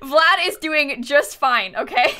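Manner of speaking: hammed-up innocence covering a crime; mock innocent. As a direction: insist nothing's wrong, far too slowly. Covering up Sims misfortune.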